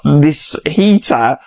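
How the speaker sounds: slow, laughing through the words; amused slow disbelief. Real, not acted. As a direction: laugh as you ask it. Laughing at friend's open windows.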